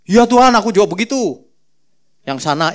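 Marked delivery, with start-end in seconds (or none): 0.0-1.5 higher, louder copycat echo; mock disciple chiming in; parroting disciples. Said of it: "Murid-murid yang lain membeo".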